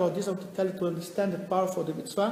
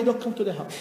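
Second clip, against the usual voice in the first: scolding wife. Acted. Wife scolds husband at home.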